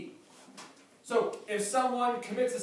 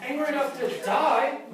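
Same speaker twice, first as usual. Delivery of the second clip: put-on childish Jonah; 3 semitones higher, 5 dB louder than usual. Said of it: "This is Jonah going".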